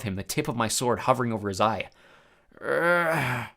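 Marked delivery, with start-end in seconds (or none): 2.6-3.5 groaning moan. A narrator's reading. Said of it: "Polyphemus moaned".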